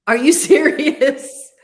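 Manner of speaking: loud, high, drawn-out disbelief; real astonishment. Real, not acted. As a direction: react with big, laughing amazement. Astonished reaction to asteroid name.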